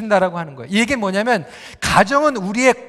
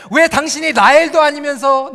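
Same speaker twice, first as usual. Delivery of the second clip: indignant mock accusation; acted angry yelling; 3 semitones higher, 4 dB louder than usual. Jacob accuses Leah of posing as Rachel, acted angry yelling. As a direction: imitate a husband scolding his wife. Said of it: "소리를 지르는 거예요".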